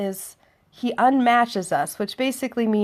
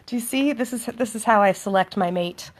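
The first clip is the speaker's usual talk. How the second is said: normal talking voice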